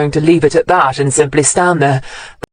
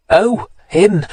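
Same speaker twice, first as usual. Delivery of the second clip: sneering; 4 semitones higher than usual. A narrator's reading. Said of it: "Matthews sneered".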